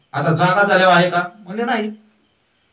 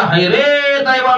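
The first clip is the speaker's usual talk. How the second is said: king's anguished cry; 7 semitones higher than usual. Acted. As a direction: raise the voice on दैवा in a storyteller's mock wail. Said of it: "म्हणून मोठ्याने ओरडला".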